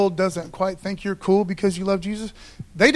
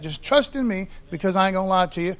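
quicker, even retelling of the promise; reworded, plainer; faster than usual. Shown as a demonstration. Preacher restating God's promise, brisk and plain. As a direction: say "Just trust in me" straight through, no laugh. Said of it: "Let me say it like that".

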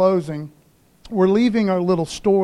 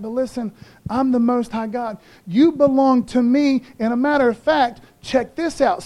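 voicing God; 3 semitones higher than usual. Voicing God reassuring Hezekiah.

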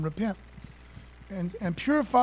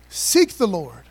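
louder, ringing call to seek; proclaiming; 8 dB louder, slower than usual. Acted. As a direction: call it out across the church. Reading psalm emphatically.

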